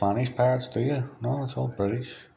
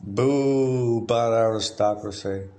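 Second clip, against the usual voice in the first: mock boo; 2 semitones higher, 4 dB louder, slower than usual. Mock booing a bad idea.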